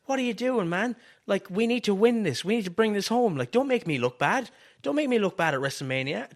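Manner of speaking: high-pitched, urgent pretend panic; a rapper panicking. Cornerman pleading with his wrestler mid-match, play-acted panic. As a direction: plead anxiously, as if the match is slipping. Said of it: "a rapper panicking".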